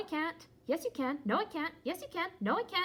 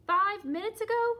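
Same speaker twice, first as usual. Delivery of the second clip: shocked; 6 semitones higher, 7 dB louder than usual. Acted. Gerald shocked at Piggy's change.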